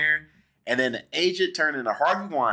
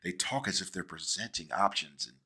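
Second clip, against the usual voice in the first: put-on lower, softer old-Hollywood Mid-Atlantic voice; lowered Mid-Atlantic movie-star croon; Mid-Atlantic accent; 10 semitones lower, 7 dB quieter than usual. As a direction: play a smooth nineteen fifties leading man in a Mid-Atlantic accent. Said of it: "There's a certain way that nineteen fifties men talk".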